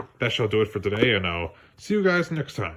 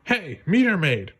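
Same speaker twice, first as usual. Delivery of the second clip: calling cop; 6 semitones higher than usual. Acted. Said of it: "one of the cops called".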